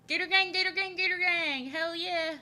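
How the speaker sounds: high, loud rapid chant; excited cheer. Real, not acted. Streamer cheering on the Gator Gang, high excited chant. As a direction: whoop it out like a rallying cry.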